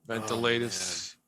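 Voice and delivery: VENTILATORS drawn out slowly in separate chunks; mimicked odd pronunciation. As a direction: correct it with his slow, split-up "ventilators". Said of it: "like, three separate words".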